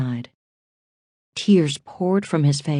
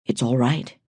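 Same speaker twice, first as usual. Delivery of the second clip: mildly reassuring; 3 semitones lower than usual. A narrator's reading. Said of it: "trying to sound reassuring".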